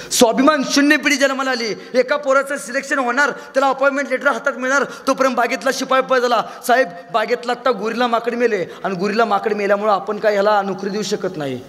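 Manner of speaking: high, animated telling. Acted. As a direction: tell it high and lively. Storytelling, raised voice.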